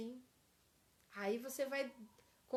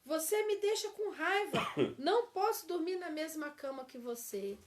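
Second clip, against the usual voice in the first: angry accusation; 3 semitones higher, 4 dB louder than usual. Shown as a demonstration. Teacher acts the angry spouse leaving the bed, loud. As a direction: snap it out in anger. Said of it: "na acusação, a pessoa diz".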